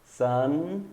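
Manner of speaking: sun drawn out on an open-lipped nasal N; final N. Shown as a demonstration. Teacher contrasts sun with some, sun ending on a long N. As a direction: keep the lips apart on the end of sun. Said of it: "Dá um sorriso".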